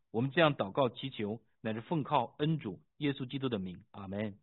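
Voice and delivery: earnest, reverent pastoral prayer; public prayer. Real, not acted. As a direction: lead the congregation in prayer, phrase by phrase. Leads congregation in prayer.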